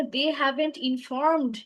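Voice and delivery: "informed" said slowly with the final -ed sounded; clear -ed ending. Shown as a demonstration. Teacher correcting student's missing past-participle ending, "informed" carefully enunciated. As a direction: draw out "informed", landing clearly on its closing d. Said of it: "ইডি হবে না?".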